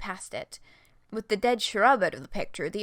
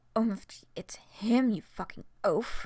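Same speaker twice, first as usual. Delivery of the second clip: loudly whispering. Reading a story aloud, voicing a character who hisses an aside: loud whisper. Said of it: "Who you loudly whispering to?".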